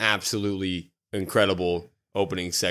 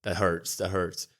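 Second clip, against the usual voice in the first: much softer, wounded mutter; pained aside; 3 semitones lower, 8 dB quieter, slower than usual. Pretend. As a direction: quietly feel the sting. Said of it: "I'm like".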